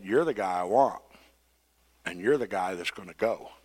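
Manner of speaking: soft and low, calmly decided, you're the guy; calm firm God. Retold or imitated. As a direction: quietly settle it, no argument, you're the guy. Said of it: "God said".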